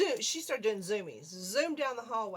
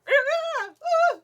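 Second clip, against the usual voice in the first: short broken mock yelps; imitated screams; 14 dB louder, much faster than usual. Showing how she screamed at the mouse, mock yelps. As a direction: squeamish little shrieks, acted out. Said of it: "And then I screamed again".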